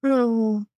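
high, drawn-out little sigh; plaintive sighed "oh"; faint sigh. A narrator's reading. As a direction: sigh a small, weary "oh" up high. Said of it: "he heard a faint sigh".

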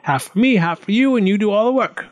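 high, eager goblin voice; goblin's cry. A narrator's reading. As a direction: crow the deal in a high creature voice. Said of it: "cried the goblin".

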